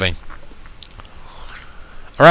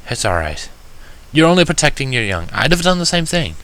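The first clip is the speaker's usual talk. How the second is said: gentle reassurance; 3 semitones higher than usual. Acted. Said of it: "I assured, trying to smile through the misery".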